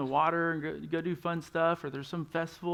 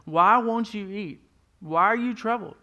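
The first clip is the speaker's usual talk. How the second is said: louder, pleading husband's questions; 3 semitones higher, 7 dB louder than usual. Acted. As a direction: press her, raised and pleading. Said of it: "her husband Elkanah would ask".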